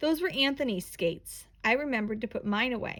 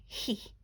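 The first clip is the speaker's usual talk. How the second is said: demon laugh; 7 dB quieter than usual. A narrator's reading. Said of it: "he's laughing a heh and a ha".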